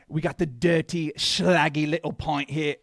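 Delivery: a hint of Micah Richards; Micah Richards impression. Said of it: "talks exactly like Micah Richards".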